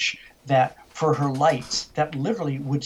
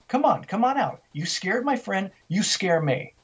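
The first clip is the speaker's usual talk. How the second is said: retold taunt to an unseen thing; daring challenge; 5 semitones higher than usual. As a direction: call it out high, then settle firm. Retold challenge to the basement spirit.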